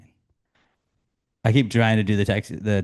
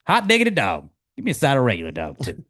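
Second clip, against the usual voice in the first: excited cheer; 3 semitones higher than usual. Acted. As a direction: cheer a great shot. Ted reacting to a shot.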